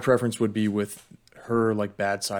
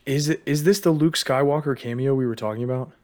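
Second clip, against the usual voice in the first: hushed, unvoiced whisper of a question; 5 semitones higher, 6 dB louder than usual. Real, not acted. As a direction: whisper it like a secret. Excited secret speculation whisper.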